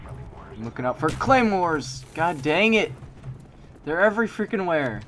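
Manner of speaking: frustrated yell. Real, not acted. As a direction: vent at the claymores. Frustrated gamer yelling at game.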